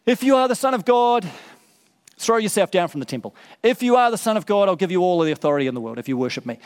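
lightly voiced tempter, mocking; tempter's voice. The evil one tempting Jesus in the desert, lightly taunting. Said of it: "That's the voice".

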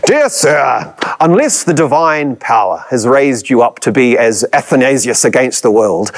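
a hint of old-fashioned posh English reading a letter; posh English accent. Preacher reading Wesley's letter to Wilberforce in a light posh English accent. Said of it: "posh, aristocratic English accent".

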